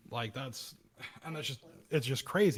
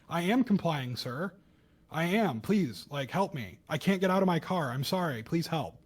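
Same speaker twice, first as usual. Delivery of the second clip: mock pleading; 4 semitones higher, 4 dB louder than usual. Pleading victims quoted by podcaster.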